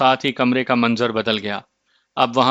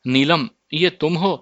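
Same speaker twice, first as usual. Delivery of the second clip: a higher, lightly raised mock cry; 4 semitones higher than usual. A narrator's reading. Husband spots the caged dove and calls out, mildly raised. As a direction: call out her name in mild alarm. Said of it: "وہ چیخ کر بولا".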